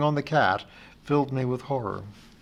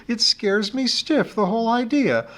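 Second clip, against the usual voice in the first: wailing fretfully; 5 semitones higher than usual. Acted. Teacher wails her worries down the phone to Amy. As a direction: fret aloud, voice pitched way up. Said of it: "I wailed".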